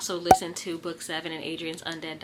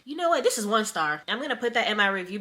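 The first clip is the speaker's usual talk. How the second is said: exasperated; 4 semitones higher, 5 dB louder than usual. Real, not acted. Annoyed rant about the book.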